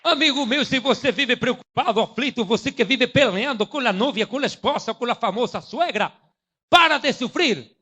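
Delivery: imitating a Brazilian TV preacher in Portunhol; light Portuguese-accented pitch; mock Portuguese preacher. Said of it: "Ese "pare de sufrir". (imitación ligera de pastor brasileño)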